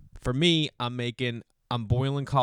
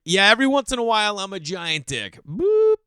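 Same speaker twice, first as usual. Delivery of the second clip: higher, louder, playful admission ending in a squeak; cheeky confession; 9 semitones higher, 7 dB louder than usual. Retold or imitated. Parent admitting snapping to other parents, cheeky. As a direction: own it with a cheeky grin. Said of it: "being like".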